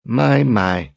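mocking. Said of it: "she mocked".

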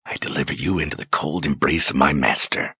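a hushed pronouncement of doom; quiet murmur. Acted. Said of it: "she murmured to herself".

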